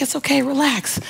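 hushed, easygoing reassurance, lightly acted; retold reassurance. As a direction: gently tell a panicking pal to relax. Friend soothes her in retold scene.

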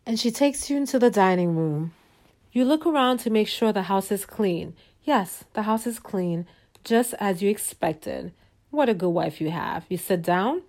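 soft, measured storyteller voice; storytelling narration. A narrator's reading. Narrator leading listeners into a fantasy evening, soft storytelling. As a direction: lay out the scene gently and evenly.

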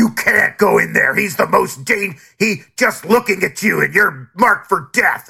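lightly hammed-up gangster-movie warning; mock-dramatic warning. Critic parodying locals warning of a mobster, mock-ominous. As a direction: warn of mortal danger in mock earnest.

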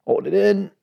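calm breathing cue, exhale slowly; breathing guidance. Shown as a demonstration. Host guides listeners to breathe before the heavy part, calm. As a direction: guide the listener through one slow breath. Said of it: "take a deep breath".

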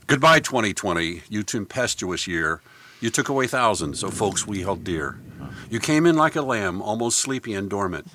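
measured, rhythmic verse reading; poem recitation. Shown as a demonstration. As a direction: recite a rhyming farewell poem. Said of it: "I'd like to give my salute".

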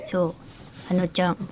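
soft, nasal, breathy Ano-chan imitation. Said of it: "何その鼻声で".

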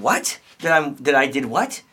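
mock incredulous. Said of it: "you're saying".

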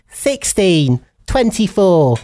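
spaced eerie number call; numbers station voice. Retold or imitated. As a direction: intone numbers like a coded broadcast. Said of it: "it's a bingo call".

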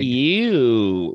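imitated catchphrase. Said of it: "Was that his catchphrase".

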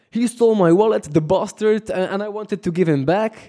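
rally the street against the thief; indignant cry. Retold or imitated. Robbed tourist telling the gathered locals, indignant and high. Tells crowd about theft.

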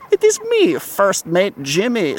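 a faint fancy French host. Acted. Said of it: "still using my fancy French voice".

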